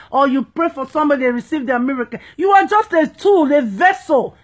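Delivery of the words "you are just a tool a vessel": preaching shout. Real, not acted. Rebuking pastors who are worshipped.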